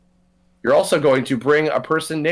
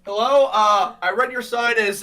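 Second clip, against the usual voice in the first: higher, lightly voiced cartoon character; 8 semitones higher than usual. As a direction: open the skit in character. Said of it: "Can you do, like, Reagan and Alex meeting".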